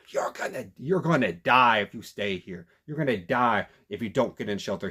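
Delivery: loud, urgent warning shouted at the crowd; teen warning strangers in a yogurt shop, shouting; retold yell. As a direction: yell it like their lives depend on it. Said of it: "He's yelling at people".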